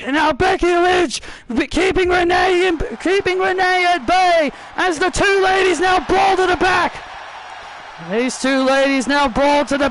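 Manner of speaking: excited ringside play-by-play; wrestling commentator. Acted. Live play-by-play of a match.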